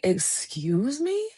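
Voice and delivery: slow, drawn-out "excuse me"; mild mock offense; mock offended. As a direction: act a little insulted, slowly. Friend offended, retold.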